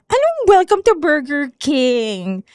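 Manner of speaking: a slow, mocking echo; slow, scornful echo of the greeting; mocking repeat. Older coworker mocks her Burger King greeting, slow and scornful. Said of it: "Tapos sabi niya".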